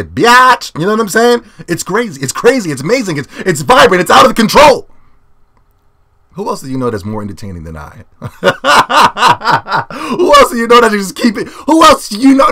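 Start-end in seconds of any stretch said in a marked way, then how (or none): 0.0-0.8 mock taunt. Taunting beaten invader. 6.3-12.5 high loud laughing boast; boastful laughing brag. Real, not acted. Vlogger to viewers, bragging with laughter, high and loud.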